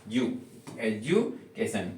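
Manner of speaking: एजुकेशन said slowly as "ed-ju-ke-shan", with the D-U sounding जू; model pronunciation. Shown as a demonstration. Teacher modelling एजुकेशन for students, slow and clear. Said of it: "जू पढ़ना है".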